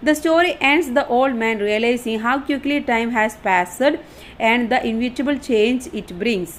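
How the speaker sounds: reading the English line out slowly, word by word; slow dictation reading. Shown as a demonstration. Teacher reading the study notes aloud, slow and deliberate. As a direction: spell it out slowly for the class.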